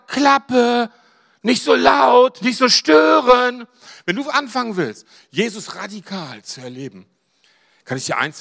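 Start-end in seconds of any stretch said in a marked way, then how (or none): 0.1-3.7 scolding hush. Retold or imitated. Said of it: "fuhren ihn an".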